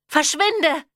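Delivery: high, frightened cry; a terrified mother driving him off; fear-distorted. A narrator's reading. Mother behind the door, high frightened cry. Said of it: "Ihre Stimme klang vor Angst verzerrt".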